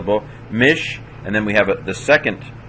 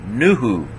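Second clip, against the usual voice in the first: nuhu with the accent on the first syllable; nuhu, nu held and stressed, hu falling. Shown as a demonstration. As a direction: lean on nu in nuhu, then drop off on hu. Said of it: "accents on the nu".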